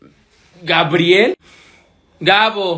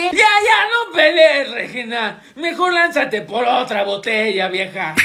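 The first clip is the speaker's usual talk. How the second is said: acting drunk. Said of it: "¿Estás borracho, Emilio?".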